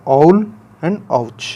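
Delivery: owl and ouch read very slowly and deliberately; teacher spelling out owl and ouch to the class, drawn-out example; slow example words. Shown as a demonstration. Shikshak dwara dheere dheere bole gaye udaharan. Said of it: "उसका example देखिए".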